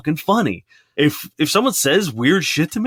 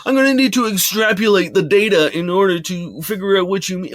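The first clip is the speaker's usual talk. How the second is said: mock professor; 5 semitones higher than usual. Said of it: "you're not a fucking professor".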